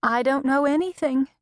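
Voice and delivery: high, tearful mother, lightly acted; sniffling. A narrator's reading. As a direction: plead helplessly, close to tears. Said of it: "My mother sniffled".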